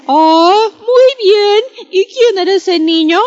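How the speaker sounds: a lightly voiced curious mom, quick and high; mother's voice. Mother quizzing her son about the missing cake, high and quick.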